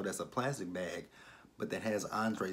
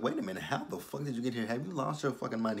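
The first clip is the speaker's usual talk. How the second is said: higher-pitched, quick indignant questioning; mildly acted outrage, pitched up; indignant retort; 4 semitones higher than usual. Startled woman confronts an intruder in her apartment, indignant.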